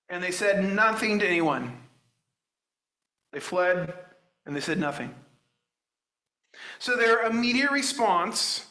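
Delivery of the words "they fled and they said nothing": softer echo that lets the words sink; a quiet, weighty restatement; hushed repeat. Shown as a demonstration. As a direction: drop the voice and let it land. Preacher repeats verse, hushed.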